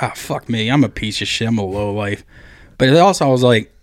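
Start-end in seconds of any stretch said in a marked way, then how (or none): 0.0-2.2 self-loathing mutter. Retold or imitated.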